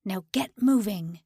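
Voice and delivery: gruff command. Acted. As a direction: push her on with a rough order. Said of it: "His voice was gruff".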